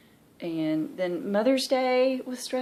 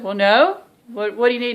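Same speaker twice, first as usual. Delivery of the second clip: mom answering; 4 semitones higher, 10 dB louder than usual. Retold or imitated. Voicing mom answering the phone.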